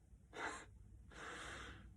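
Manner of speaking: faint, breathy chuckle; a quiet huff of laughter; soft laugh. Acted. Soldier remembering what dying men called them, faint laugh. Recalling dying men's words.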